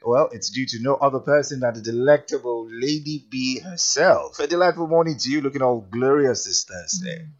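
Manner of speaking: smooth on-air show opener; radio host intro. Acted. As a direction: warm announcer read with music. Radio show intro over music.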